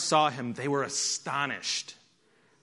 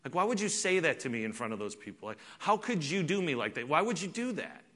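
hurt spouse; 6 dB quieter than usual. Retold or imitated. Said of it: "they say".

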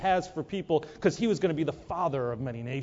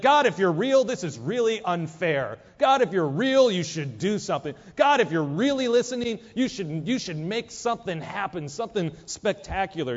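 frustrated pleading; 2 semitones higher than usual. Acted. Frustrated prayer acted out.

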